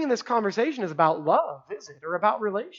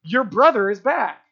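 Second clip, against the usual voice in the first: a plain, matter-of-fact announcement; just pass on the news; servants announcing; 5 dB louder than usual. Retold or imitated. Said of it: "the servants even came out and said".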